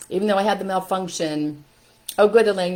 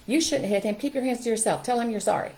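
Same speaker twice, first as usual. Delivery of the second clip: teacher's scolding; 5 semitones higher than usual. Acted. Acting teacher scolding a child.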